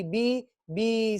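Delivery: very slow, stretched bi bi; slow drawn syllables. Shown as a demonstration. Teacher drawing out the syllables together. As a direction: drag out बी बी. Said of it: "एक साथ बोलेंगे".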